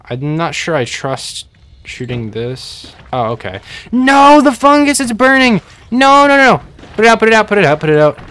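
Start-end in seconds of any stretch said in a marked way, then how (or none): 3.9-6.6 high, loud panicked yelling as the fungus burns; real alarm, shouting at the screen. Real, not acted. Streamer watching his fungus burn, panicked loud shouting. Fungus catching fire in game. 6.9-8.2 loud, higher, rapid begging; frantic pleading. Real, not acted. Streamer begging the fire to go out, frantic loud pleading.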